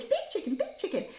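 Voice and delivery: very high, soft parrot impression; tiny falsetto bird voice; high-pitched bird. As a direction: imitate a little bird squeaking proudly. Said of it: "does this high pitch".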